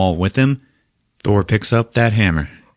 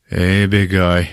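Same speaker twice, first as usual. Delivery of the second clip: slow imitated calming call; soothing lullaby coaxing; slower than usual. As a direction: ease it out to settle a raging beast. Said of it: "trying to do the lullaby thing".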